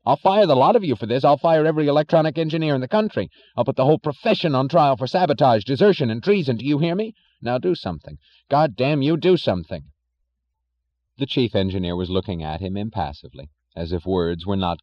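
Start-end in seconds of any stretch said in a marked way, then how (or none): 0.0-9.8 loud, fast raging threats; angry shouting. Acted. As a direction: rage and threaten them all. Thompson threatening engineers in rage.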